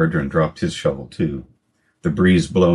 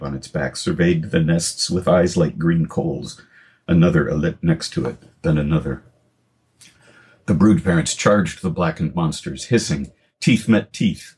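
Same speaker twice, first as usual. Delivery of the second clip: measured storytelling read; story narration. Acted. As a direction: read the prologue to listeners. Continues narration.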